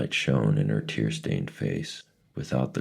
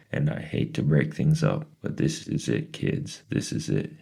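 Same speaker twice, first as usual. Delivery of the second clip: quivering excitement. Acted. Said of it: "His voice quivered with excitement".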